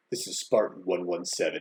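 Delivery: very deep, very low, pushed-down soldier voice. Joking about a personal assistant that talks back: Master Chief voice. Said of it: "And then he'd be like".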